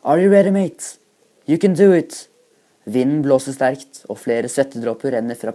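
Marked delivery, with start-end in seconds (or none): 0.0-2.3 high, loud hype-up shout; roared English, pushing him on; roaring. A narrator's reading. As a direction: bellow encouragement to a jumper. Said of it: "hører australieren brøle".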